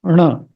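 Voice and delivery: ण with the tongue curled back; a curled-back ण sound; retroflex N. Shown as a demonstration. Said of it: "retroflex N".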